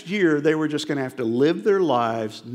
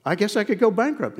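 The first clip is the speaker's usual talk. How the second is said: whiny reply; 8 semitones higher than usual. Retold or imitated. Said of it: "I said".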